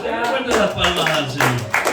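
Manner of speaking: rally the congregation; loud call to the church; call to applause. Real, not acted. Preacher calls congregation to clap.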